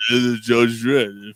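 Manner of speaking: Stallone impression. Slow mock Stallone line.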